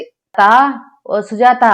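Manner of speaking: calling out. A narrator's reading. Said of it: "Kamalamma గట్టిగా పిలుస్తుంది". (పక్కింటి నుంచి పిలుపు)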